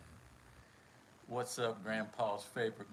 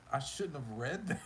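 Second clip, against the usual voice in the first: laughing through the words, embarrassed; 3 semitones higher than usual. Real, not acted. Streamer caught reading a rude line, laughing. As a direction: giggle while owning up.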